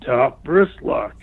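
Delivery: slow, drawn-out Top wrist lock; drawn-out repeat. Retold or imitated. The opponent calls the hold a second time, slowly drawn out. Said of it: "So he says it to me again".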